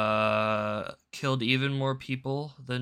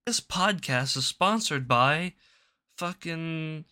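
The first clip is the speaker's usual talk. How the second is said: mock ad read; 4 semitones higher, slower than usual. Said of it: "and being like".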